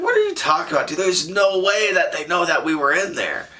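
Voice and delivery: high-pitched, scoffing retort; incredulous dismissal. Retold or imitated. Dismissive retort to worried buddy.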